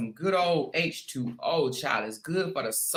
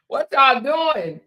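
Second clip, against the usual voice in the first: excited; 7 semitones higher, 6 dB louder, slower than usual. Real, not acted. Excited greeting to chat.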